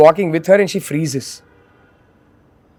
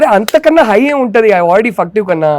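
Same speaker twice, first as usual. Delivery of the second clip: excited protest; 3 semitones higher, much faster than usual. Retold or imitated. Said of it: "I was like".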